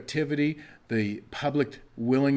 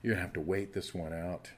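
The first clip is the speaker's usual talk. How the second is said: lower, softer, measured answer; God's calm reply; 5 semitones lower, 4 dB quieter than usual. Acted. God tells the crying child to wait, calm reply. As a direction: settle them down quietly, pitched low. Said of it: "but God would say".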